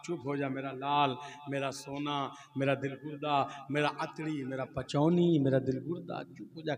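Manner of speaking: low, cooing father's lullaby; soothing a baby. Acted. Cleric cooing to his crying son Chintu, low and tender. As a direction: hush the baby gently.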